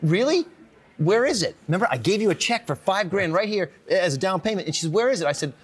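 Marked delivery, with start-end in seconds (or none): 0.0-4.7 imitated incredulous questioning, pitched high; incredulous fiancee. Fiancee reacts to surprise house purchase. 4.9-5.3 higher-pitched imitation of a puzzled question; incredulous fiancee. Fiancee asks again about the house.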